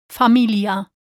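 Familia with a pure Spanish i. Shown as a demonstration. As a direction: say Familia with crisp Spanish vowels. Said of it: "Repeat after me".

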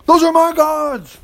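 high, slow, wailing complaint; whining lament. Acted. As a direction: whine over the lost gods. Micah mourns his stolen gods.

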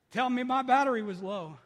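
laughing through the words. Real, not acted. Preacher laughing at his phone going off, amused. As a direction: chuckle it out at yourself.

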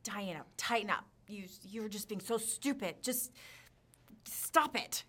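harsh self-talk. Retold or imitated. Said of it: "really harsh words on myself".

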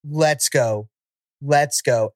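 high, drawn-out bored whining; sarcastic whiny girl. Retold or imitated. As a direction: whine for everyone to leave. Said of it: "the tone of her voice".

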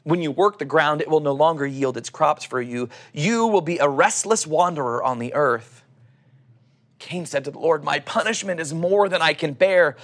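calm, measured Bible reading; scripture reading. Acted. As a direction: read the passage like a sermon text. Reads Genesis passage aloud.

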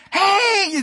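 high, loud mock-excited holler; imitating exuberant greeting. Imitating an ever-joyful colleague, exuberant and high. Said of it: "You just see that".

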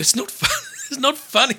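high-pitched protest through laughter; helpless, squeaky denial; laughing protest. Real, not acted. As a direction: object while cracking up. Protests while laughing at story.

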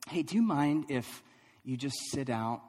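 imitating a coach gently breaking bad news; mild, careful let-down with small pauses; tactful and kind. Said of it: "trying to be really tactful and graceful and kind".

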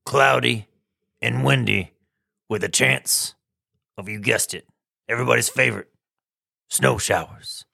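a hint of a low ape voice; lightly voiced ape. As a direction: lightly play Rick the ape. Host voices Rick the ape.

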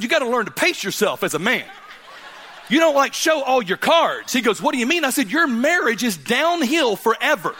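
high and loud, laughing through the punchline; can barely get it out for laughing. Real, not acted. Joking story, laughing through it.

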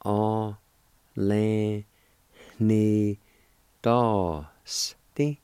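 "A, le, ni, dos, ti" broken into separate syllables with a pause after each; teacher sounding out "A, le, ni, dos, ti" syllable by syllable. Shown as a demonstration. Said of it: "It's pronounced like this".

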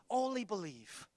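quietly savored Only believe; hushed. Shown as a demonstration. Preacher to congregation, hushed and tender. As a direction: say Only believe softly, almost to yourself. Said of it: "just those two words".

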